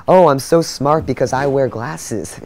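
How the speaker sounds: smug know-it-all voice, slow and drawn out; mock him as a self-satisfied snob; mocking imitation. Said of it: "He just looks so stupid".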